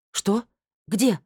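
ошеломлённо, гораздо выше; вскрикнуть от удивления. Acted. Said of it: "уточнила я ошеломлённо". (ошеломлённо, высоко)

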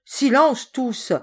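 loud, slow booming command; stentorian shout. Acted. The sailor silences the chattering servants with a booming shout. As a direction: silence the whole kitchen with one roar. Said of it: "cria d'une voix de stentor".

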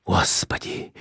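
breathy frightened whisper. A narrator's reading. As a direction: whisper it in fear. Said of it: "прошептал Николай Иванович".

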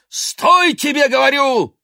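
very high, loud order to stop; thundering shout. Acted. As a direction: roar after him. Ostap keeps shouting at priest.

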